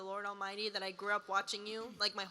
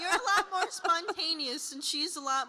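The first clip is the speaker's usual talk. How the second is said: much higher, louder, laughing excitedly; excited fan; 7 semitones higher, 7 dB louder than usual. Real, not acted. Fan answering the star, laughing and excited. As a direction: blurt it out in delight.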